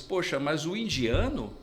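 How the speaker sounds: "indiano" dito alto e enfático, voz bem mais aguda; emphatic retold retort. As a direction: rebate com firmeza o preconceito. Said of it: "eu falo pra eles". (resposta enfática aos colegas, em tom mais agudo)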